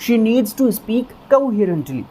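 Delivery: teacher's line to parents, said slowly; slow, deliberate teacher voice; spelling it out for the parents; slow model sentence. Shown as a demonstration. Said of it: "madam क्या कहेंगे उनके parents से?".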